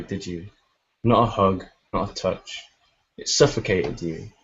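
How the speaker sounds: slow, measured recital with pauses between lines; poem reading. Acted. Reads a poem aloud.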